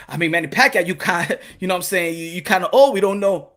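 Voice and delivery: low, quiet, hesitant executive; Al Heyman. Acted. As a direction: hedge softly, down in the chest. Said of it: "Al Heyman's like".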